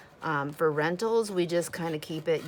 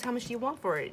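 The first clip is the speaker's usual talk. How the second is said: put-on sweet old lady; 7 semitones higher, faster than usual. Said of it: "She goes".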